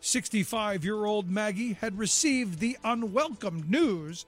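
measured, scripted documentary read; radio history narration. A narrator's reading. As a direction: tell it like a short radio history feature. Reads a scripted history segment.

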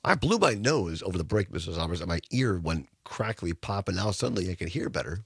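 hoarse from a sinus infection; rough voice. Real, not acted. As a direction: talk through a sore, rough throat. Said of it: "for the rough voice".

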